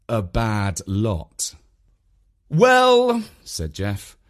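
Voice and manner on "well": high, loud opening word; parting visitor. A narrator's reading. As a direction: pitch it up to wrap things up. Visitor starts taking his leave.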